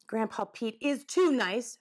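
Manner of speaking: mildly defensive insistence; protective. Acted. Albert defending Grandpa to the woodchuck, mildly protective. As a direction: stand up for him, a touch indignant. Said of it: "Albert said protectively".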